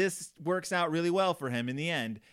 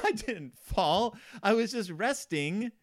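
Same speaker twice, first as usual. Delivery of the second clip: lightly voiced farmer; 6 semitones higher, slower than usual. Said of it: "Farmer Ben is like".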